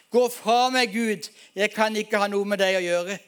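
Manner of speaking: calling out loud and clear at God; loud cry to God. Retold or imitated. Lying on the lawn, he cries out to God, loud and clear. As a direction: cry it out, pushing God away. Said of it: "roper jeg høyt og tydelig".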